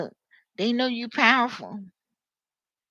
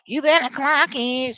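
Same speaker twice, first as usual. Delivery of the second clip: higher-pitched sassy catchphrase; queen talk imitation; 4 semitones higher, 4 dB louder than usual. Showing how she could talk, sassy imitation. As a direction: lightly mimic a sassy queen. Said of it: "She could talk like that".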